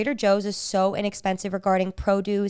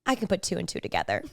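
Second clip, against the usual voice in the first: deadpan one-liner; 3 semitones lower, 6 dB quieter than usual. Retold or imitated. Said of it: "And he goes".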